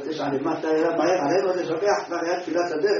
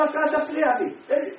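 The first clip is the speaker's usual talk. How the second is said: irritated rebuke; 12 semitones higher, 5 dB louder than usual. Retold or imitated. Rabbi brushes off the interrupter.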